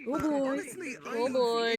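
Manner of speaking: burpy, queasy sighs; burping. Real, not acted. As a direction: let a burp slip through. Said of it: "I'm burping".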